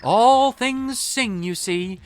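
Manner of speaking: grand poetic. Acted. Piccolo's grand speech.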